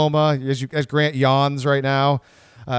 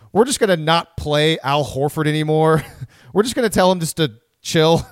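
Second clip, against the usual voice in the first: laughing. Retold or imitated. Laughing while retelling team's decision.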